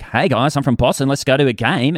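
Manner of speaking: attempted Boston accent. Shown as a demonstration. Australian guest demonstrating American accents, attempted Boston accent. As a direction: greet the guys in a put-on Boston accent. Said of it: "Boston, like".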